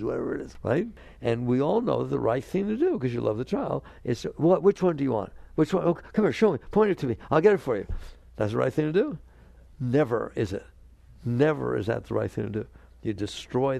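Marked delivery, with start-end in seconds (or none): 4.4-7.9 placating parent. Acted. Parent giving in to tantrum child.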